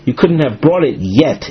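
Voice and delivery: "yet" given extra emphasis mid-sentence; stress on "yet". Shown as a demonstration. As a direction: make the word "yet" stand out. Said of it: "I emphasize the word yet".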